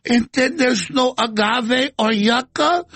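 high, slow, shouting mock cry; wailing mock AOC. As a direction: wail it like a hammed-up crybaby. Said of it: "A O C's like".

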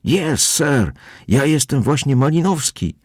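high, happy eager yes; joyful agreement. A narrator's reading. Man in cap proudly confirming his name, high and joyful. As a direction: beam as you confirm it proudly. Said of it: "przytakiwał radośnie jegomość".

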